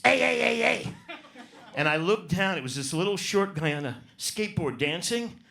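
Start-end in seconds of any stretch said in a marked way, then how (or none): 0.0-0.9 mock call. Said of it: "I hear this".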